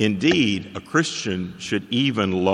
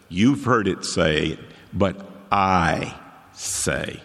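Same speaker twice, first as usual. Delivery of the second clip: Jesus speaking plainly; 5 semitones lower, slower than usual. Retold or imitated. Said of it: "He simply says".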